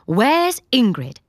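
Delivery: loud, slow demand. Acted. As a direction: call out for her sharply. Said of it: "Stephanie demands".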